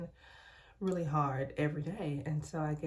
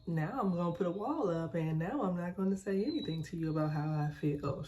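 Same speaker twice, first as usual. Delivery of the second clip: dramatic. Retold or imitated. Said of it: "Real dramatic".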